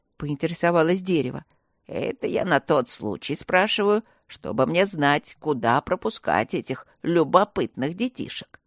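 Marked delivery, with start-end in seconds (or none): 1.9-8.6 lightly deepened tree voice; a touch of the old tree; talking tree. Acted. Tree character voice.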